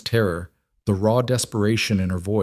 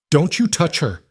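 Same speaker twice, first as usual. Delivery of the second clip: fierce protective shout; 8 semitones higher than usual. A narrator's reading. Mother protecting child from grab.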